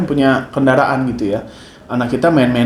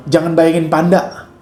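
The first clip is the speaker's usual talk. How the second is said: slow demo command; 2 semitones higher than usual. Shown as a demonstration. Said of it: "kalau saya bilang".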